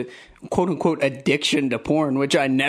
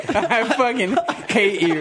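higher, laughing protest; laughing exasperation; 7 semitones higher than usual. Real, not acted. Embarrassed man to the friend exposing him, laughing exasperation. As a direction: protest helplessly through laughter.

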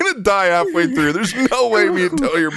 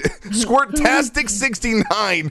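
text-to-speech voice; much slower than usual. Retold or imitated. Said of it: "this lady reads off any sub".

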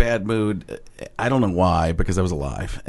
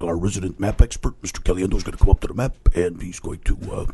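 a hint of a dry teacher; lightly voiced dry teacher; teacher impression. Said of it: "do the impression of him".

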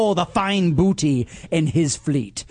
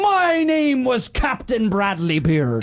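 pirate captain voice; 5 semitones higher, slower than usual. Acted. Pirate sign-off in character.

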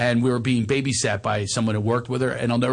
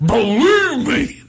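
high, loud, stretched-out impression; hammed-up squeal, very drawn out; Steiny; 10 semitones higher, 5 dB louder, much slower than usual. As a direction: wail it slowly, way up high. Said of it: "This is how he talks".

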